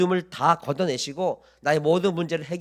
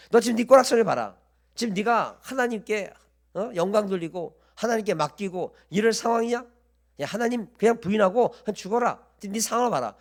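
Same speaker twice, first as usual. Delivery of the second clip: higher-pitched acted voice of a reproachful wife; scolding wife; 4 semitones higher than usual. Job's wife urges him to give up on God, scolding. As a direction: play a wife berating her husband. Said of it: "그의 아내가 그에게 이르되".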